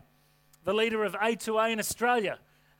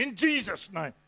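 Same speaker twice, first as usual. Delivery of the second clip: mock preacher. Tacks on more of the impression.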